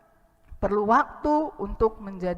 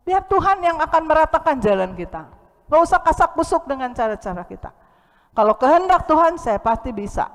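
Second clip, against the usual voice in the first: higher and louder, pressing the point; rally the congregation; fervent sermon exhortation; forceful preaching; 6 semitones higher, 7 dB louder than usual. Acted.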